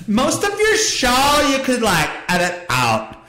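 high, slow mock voice of a friend, half laughing; a silly put-on voice for Kelsey, laughing through it; mocking imitation. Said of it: "She doesn't talk like that".

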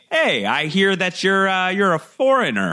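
mock suspicious lord; lightly voiced suspicion. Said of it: "somebody is like".

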